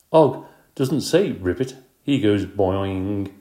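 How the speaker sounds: slow, firm correction; know-it-all kid. Acted. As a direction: set them straight slowly. Heidi corrects proudly.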